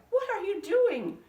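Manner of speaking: wife scolding husband over all the cats; upset old woman. A narrator's reading. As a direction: scold him in disbelief. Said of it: "she cried".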